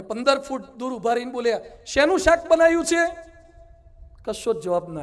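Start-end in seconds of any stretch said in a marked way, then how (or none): 1.9-3.2 raised, higher call across the house. Retold or imitated. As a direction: call out to the wife from far off. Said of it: "બૂમ પાડજો". (દૂરથી બૂમ પાડીને પૂછવું)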